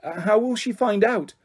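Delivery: hoarse, strained whisper. A narrator's reading. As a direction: ask it hoarsely. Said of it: "I said hoarsely".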